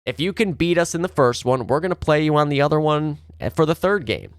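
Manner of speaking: imitating a team going for it; imagined team defiance. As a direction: voice the team throwing down a challenge. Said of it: "They're, they're saying".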